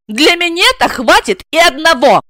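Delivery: enjoy the put-down; gloating. A narrator's reading. Wife gloating over the blonde. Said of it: "злорадно заверила".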